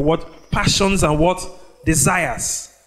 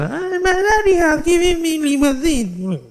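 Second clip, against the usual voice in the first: put-on high, slow, gleeful five-year-old voice; excited child; 12 semitones higher than usual. Preacher voicing a five-year-old thrilled with his limousine. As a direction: squeal it like a thrilled little boy.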